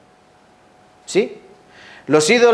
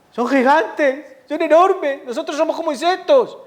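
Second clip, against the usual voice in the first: whiny fearful voice; 12 semitones higher than usual. Retold or imitated. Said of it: "Qué diferencia".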